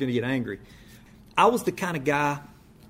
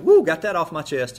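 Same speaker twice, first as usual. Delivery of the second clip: relieved whoop; 3 semitones higher, 6 dB louder than usual. Retold or imitated. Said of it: "they were like".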